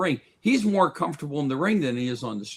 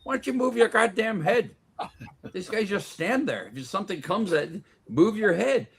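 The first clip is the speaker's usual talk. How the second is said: put-on exasperated old trainer; 7 semitones higher than usual. Old champ scolding young boxers, raised exasperated voice. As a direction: scold him to move his head. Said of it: "He goes".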